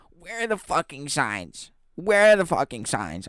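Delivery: high, mocking outraged yell; angry customer. Retelling the rude customer, a high mocking angry yell. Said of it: "she's like".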